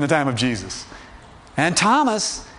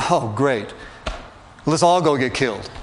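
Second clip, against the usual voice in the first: sarcastic; 3 semitones lower than usual. Retold or imitated. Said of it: "Thomas is basically saying something like this".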